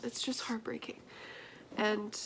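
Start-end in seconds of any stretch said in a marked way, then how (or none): 0.0-1.0 hushed whisper, heartbroken. Real, not acted. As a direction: breathe it out softly. Moved by the poem.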